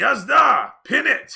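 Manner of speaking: very loud, high, rough shout. Voicing a character calling out to the cart driver: shouting. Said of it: "He shouts out".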